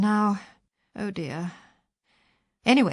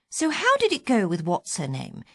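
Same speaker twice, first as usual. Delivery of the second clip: martyrish accusing tone; 3 semitones higher than usual. Retold or imitated. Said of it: "in that same martyrish accusing tone".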